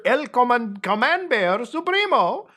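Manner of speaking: high, drawn-out mock Spanish hero title; hammed-up announcer. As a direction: proclaim the hero's grand title.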